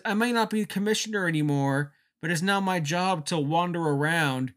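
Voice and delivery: jovial Mick Foley. Retold or imitated. Foley greeting his hometown fans, jovially imitated. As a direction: play it like a beloved veteran working the crowd. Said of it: "jovial Mick Foley".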